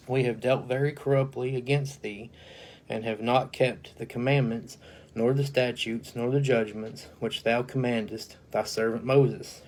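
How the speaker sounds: a formal, solemn Bible reading; measured King James recitation; scripture reading. Acted. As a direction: read the verse out like a preacher at the pulpit. Reads Nehemiah scripture aloud.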